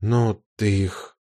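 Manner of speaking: slow and careful, testing the waters; careful question. A narrator's reading. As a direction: ask it gingerly, slowly. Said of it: "осторожно спросила". (осторожно и медленно)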